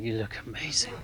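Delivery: put-on soft, laughing drunken compliment; softly slurred late-night compliment; drunken blurt. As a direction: blurt it quietly with a laugh, a bit too late. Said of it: "and I just went".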